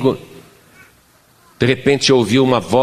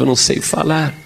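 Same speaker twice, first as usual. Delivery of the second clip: lamento chorando; 2 semitones higher than usual. Retold or imitated. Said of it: "E eu chorava".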